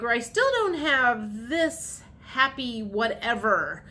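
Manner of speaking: listing grievances, mildly exasperated; exasperated complaint. Acted. Viewer arguing with the universe over unrewarded efforts, exasperated. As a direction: tick off each effort, voice lifting on THIS. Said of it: "you're having this conversation with the universe".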